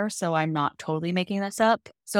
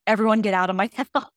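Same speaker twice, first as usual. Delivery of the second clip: eager shooing. Retold or imitated. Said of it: "then he's like".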